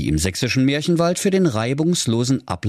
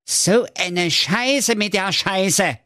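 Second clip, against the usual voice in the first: high, drawn-out comic dismay; horrified cry; 10 semitones higher, slower than usual. Acted. Jakob sees the fairy tales failing, horrified comic cry. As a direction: curse slowly in a high, appalled character voice. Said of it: "rief der Jakob entsetzt".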